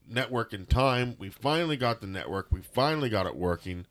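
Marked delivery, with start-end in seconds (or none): none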